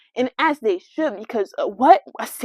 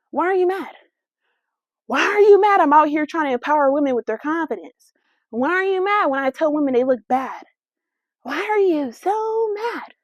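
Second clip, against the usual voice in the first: indignant challenge; 3 semitones higher than usual. Real, not acted. Mocking angry commenters.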